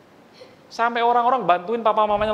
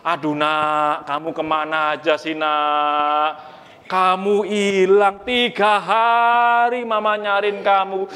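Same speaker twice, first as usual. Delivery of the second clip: worried mother; slower than usual. Acted. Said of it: "Mamanya bilang begini tadi kan".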